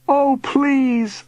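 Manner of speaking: high, urgent begging; pleading call. A narrator's reading. Boy begging departing uncle, calling out. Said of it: "I called".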